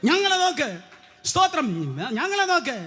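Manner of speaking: a touch of defiant pride; bold challenge. Shown as a demonstration. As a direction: say it high and proud, as a dare. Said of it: "വെല്ലുവിളിച്ച് പറയാൻ".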